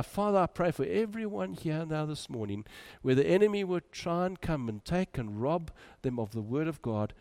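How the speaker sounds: earnest, commanding prayer voice. Acted. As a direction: pray with authority over them. Prays over the congregation.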